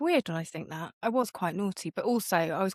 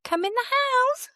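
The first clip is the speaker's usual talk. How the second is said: menacing big sister; 4 dB louder than usual. Retold or imitated. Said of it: "And I'd be like".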